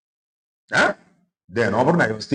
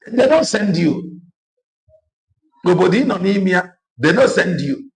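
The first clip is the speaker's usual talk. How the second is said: impassioned outcry; 9 semitones higher, 5 dB louder than usual. Real, not acted. Heated complaint about leaders.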